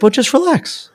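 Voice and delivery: high mocking just relax; condescending guy. Young guy telling him to relax, high and mocking. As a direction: talk down to him. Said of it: "He's like".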